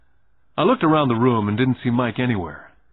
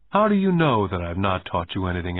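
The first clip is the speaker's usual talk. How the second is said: put-on lower, composed adult reply after the boy's outburst; settled, even-tempered challenge; calm question; 3 semitones lower than usual. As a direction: ask it calmly, unruffled. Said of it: "asked Rich Dad calmly".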